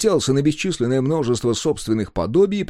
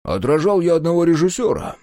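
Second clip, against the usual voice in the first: louder, higher significant pronouncement; meaningful; 8 semitones higher, 4 dB louder than usual. Acted. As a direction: announce it with weight, a hint of portent. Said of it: "многозначительно молвил он".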